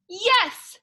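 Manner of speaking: a narrator's bright mock shout; band shouts. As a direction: cheer it out as a whole band. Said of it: "The whole band shouts".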